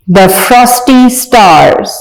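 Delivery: reading a poem aloud slowly, word by word. Shown as a demonstration. Teacher reading a poem to young pupils, slow and clear. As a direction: recite each word clearly for the class. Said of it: "आइए पढ़ते हैं".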